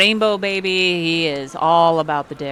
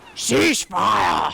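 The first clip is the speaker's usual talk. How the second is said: gravelly, gruff, rough-edged voice; 3 semitones higher than usual. Game narrator voices a massive shark captain calling out, booming gruff voice. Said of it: "booming, uh, gruff voice".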